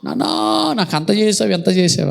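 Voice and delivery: badly faked weeping over the dead; fake wailing. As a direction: imitate a put-on mourner's wail. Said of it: "అన్ని దొంగ ఏడుపులు ఏడుస్తూ ఉంటారు".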